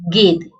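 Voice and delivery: गेंद said without the nasal, as ged; गेंद with no n sound at all; without bindi. Shown as a demonstration. Teacher shows गेंद without bindi, no n. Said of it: "गेंद न की आवाज नहीं आएगी".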